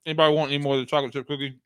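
talking with a mouth full. Real, not acted. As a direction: talk around a bite of cookie. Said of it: "don't be talking with your mouth full".

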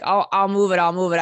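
loud, hurried-sounding mock plea; flustered promise. Imitating stranded driver placating an angry band, loud and flustered. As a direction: blurt it out to placate them, loudly. Stranded man pleads, retold.

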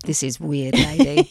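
mock a ten-year-old weirded out, light touch; skeptical kid. Imitating a ten-year-old boy's reaction to the lady, lightly voiced wary kid.

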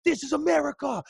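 high-pitched, loud mock outrage; imitated yelling. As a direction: holler it like a cartoon protester. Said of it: "yells and screams".

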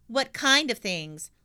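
lightly voiced cheeky girl. Pippi voiced.

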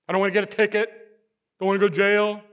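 put-on fearful teen excuse. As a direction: play the scared kid reciting excuses. Voicing his own fearful teen excuse.

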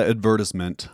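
advertisement stressed on the second syllable, "ad-VER-tis-ment"; deliberately odd pronunciation. Retold or imitated. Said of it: "I'll say things a certain way just to".

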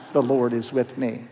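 low doubtful mutter; muttered disbelief. Acted. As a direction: mumble it to yourself, unconvinced. Gideon repeats the angel mockingly.

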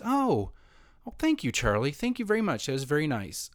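put-on girl's polite thanks. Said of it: "she says".

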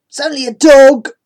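sleepy yawn through words. Acted. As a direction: say it mid-yawn. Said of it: "he says, yawning".

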